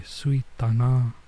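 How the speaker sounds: slow, careful reading of sui; sounding out sui. Real, not acted. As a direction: sound out the Japanese sui slowly. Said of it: "I think that's sui".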